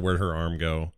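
ordinary delivery

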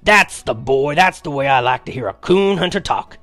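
put-on loud, pent-up excited old grandpa. A narrator's reading. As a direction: let the held-in delight burst out. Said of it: "In a pent-up voice".

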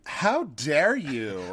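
very slow, drawn-out affront; mock indignation. Co-host objects to sensible shoe advice, mock indignation. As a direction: stretch each word in playful offence.

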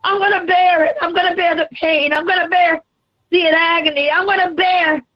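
hammed-up aching Jesus calling to Mama, rising to a cry; Jesus in pain. Preacher voices Jesus, cries Mama.

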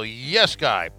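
"Oh, yes guy" stretched very slowly with a falling "oh"; drawn-out yes guy. Acted. Drawn-out verdict.

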